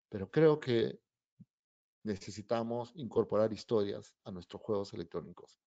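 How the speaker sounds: mild Spock impression, measured and unemotional; Spock-like speech. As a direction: lightly imitate a calm, logical Spock-like speaker. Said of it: "como el doctor Spock, habla".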